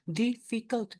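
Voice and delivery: "Difficult" split into three even beats; syllable by syllable. Shown as a demonstration. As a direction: sound out "Difficult" in separate syllables. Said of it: "the units are".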